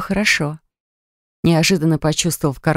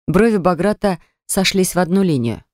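ordinary delivery, nothing marked

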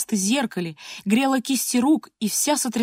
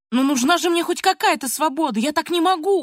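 high, pleading outcry; girl's pitched-up cry of protest; 7 semitones higher, 3 dB louder than usual. A narrator's reading. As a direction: protest loudly, losing self-control. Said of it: "уже кричала Полина".

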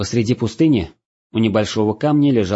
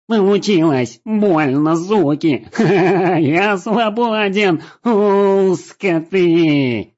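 high, loud half-laughing cries of freedom; crying out strange words; 10 semitones higher, 4 dB louder, much slower than usual. A narrator's reading. The freed Trinik rolling on the ground, crying out wildly. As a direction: yell it out, laughing through pain. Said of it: "выкрикивал странные слова".

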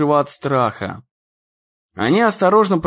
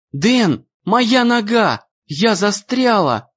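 panicked call; 6 semitones higher, slower than usual. A narrator's reading. Emmy stuck, calling for help.

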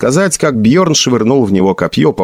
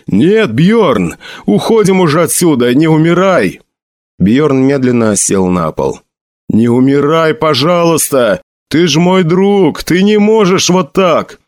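desperate pleading cries; 5 semitones higher than usual. Acted. Sedjin begs dying Bjorn to stay, pleading cries. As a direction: cry out to a dying friend, voice pitched up.

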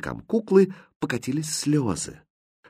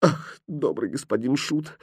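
soft, slow plea through sobs; softly sobbing doll; tearful sobbing start; 3 semitones higher, 6 dB quieter than usual. A narrator's reading. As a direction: sigh it out slowly, on the edge of tears. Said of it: "всхлипывая".

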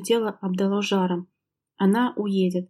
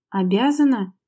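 a louder, indignant repeat of the word; indignant echo; 5 dB louder than usual. Acted. Wife indignantly echoing her husband's word, louder. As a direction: throw the word back in disbelief. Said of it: "возмущённо переспросила Лера".

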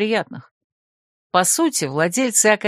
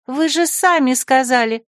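put-on higher girlish voice; secretary; 5 semitones higher than usual. Secretary protests to the rector, high. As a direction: protest innocently. Lulu's voice.

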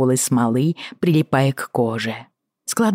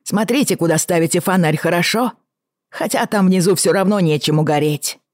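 high voice; 5 semitones higher than usual. Acted. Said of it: "донёсся его высокий голос".

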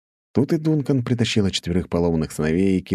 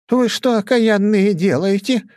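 high, loud scolding cry; indignant exclamation; 6 dB louder, slower than usual. A narrator's reading. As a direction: scold the trampling louts. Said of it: "воскликнула она". (возмущённый громкий окрик, высоко)

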